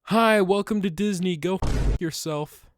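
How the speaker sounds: cheery fake Scottish welcome with a sting; Scottish accent. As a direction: loose Scottish accent, yelled in jest. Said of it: "I yelled it out loud in a Scottish accent".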